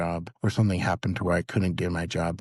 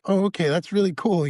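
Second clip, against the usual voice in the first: high excited quote; 11 semitones higher, 5 dB louder than usual. Retold or imitated.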